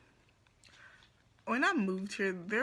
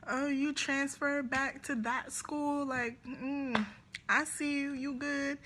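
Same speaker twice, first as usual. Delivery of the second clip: high chirpy friendly hello; bright greeting; 7 semitones higher than usual. Retold or imitated. Answering his Instagram message with a high, cheery hello. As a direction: greet him sweetly, high. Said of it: "and I'm like".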